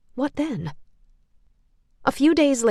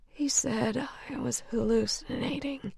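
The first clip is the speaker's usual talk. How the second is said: disgusted; 3 semitones higher, 9 dB quieter than usual. Acted. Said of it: "mouth contorted in disgust".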